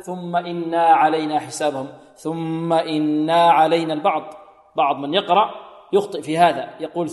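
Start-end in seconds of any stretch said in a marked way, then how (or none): 0.0-3.9 إنا with an alif after the nun; wrong added alif. Shown as a demonstration. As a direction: lengthen إنا as the error. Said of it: "لا نقول".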